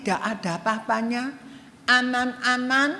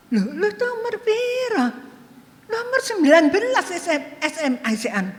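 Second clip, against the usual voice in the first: surprised classmate; 5 semitones higher than usual. Retold or imitated. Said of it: "Teman saya itu".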